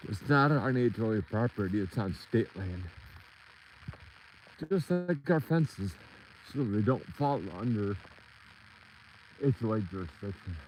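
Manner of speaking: talking while winded from walking; short of breath on a hike. Real, not acted. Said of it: "I'm out of breath".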